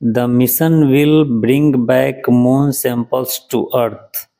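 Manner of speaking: very slow, each word spelled out for learners; teacher reading a headline aloud very slowly. Shown as a demonstration. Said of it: "English में news है दूसरा".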